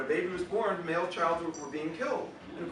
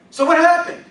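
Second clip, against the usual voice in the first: high, loud nagging Yiddish mother; Yiddish accent; 13 semitones higher, 16 dB louder than usual. Acted. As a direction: kvetch like an offended Jewish mother. Mother voice again.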